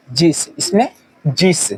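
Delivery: जिस spoken slowly with a short i, drawn out gently. Shown as a demonstration. Hindi teacher showing students how to read जिस, slow and gentle. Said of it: "आराम से पढ़ेंगे इसको".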